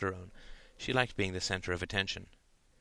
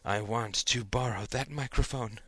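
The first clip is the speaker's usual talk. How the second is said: mock sultry. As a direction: tease it in parody. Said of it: "in a parody of sexual desire".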